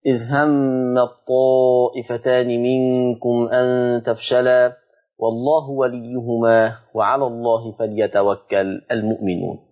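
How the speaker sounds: slow, measured tajweed recitation; slow chanted Quran reading. Acted. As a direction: recite the verse slowly with care.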